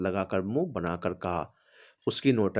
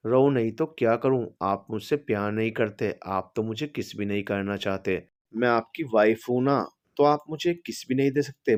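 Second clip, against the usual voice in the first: put-on childlike crying; 2 semitones higher than usual. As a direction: wail like a sulking child. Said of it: "बच्चों की तरह रोने लगी".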